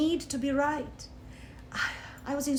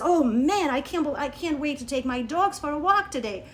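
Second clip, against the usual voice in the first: exaggerated cheerfulness. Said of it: "I go exaggerated on the positive end".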